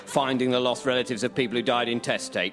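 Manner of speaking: smooth TV presenter read; documentary presenter. Acted. Presenter opening a daytime documentary, smooth TV read. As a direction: introduce the show like a TV host.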